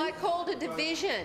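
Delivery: high exasperated insistence. Real, not acted. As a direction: push back, pitch up, exasperated. Insisting again, voice raised.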